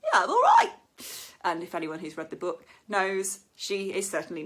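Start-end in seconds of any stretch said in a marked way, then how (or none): 0.0-0.7 high, loud breezy answer; light mock breezy reply; casual and honest. Shown as a demonstration. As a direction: toss it off like it's true. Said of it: "it just seems true".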